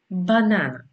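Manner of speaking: μπανάνα with a hard initial b; pronunciation example. Shown as a demonstration. Teacher giving an easy example word, demonstrating b in μπανάνα. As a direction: model the b sound at the start of μπανάνα. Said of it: "αρκεί να σκεφτείτε τη λέξη".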